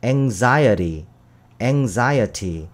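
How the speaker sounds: anxiety said slowly with a flapped t; slow model pronunciation. Shown as a demonstration. Teacher models American anxiety with flap, slow. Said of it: "발음이".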